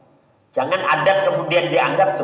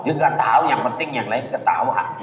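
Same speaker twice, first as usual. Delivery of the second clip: answering through a laugh, clueless; laughing follower; 4 semitones lower than usual. Retold or imitated. Preacher mimics a follower laughing along, laughing. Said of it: "Pak, kenapa ketawa?".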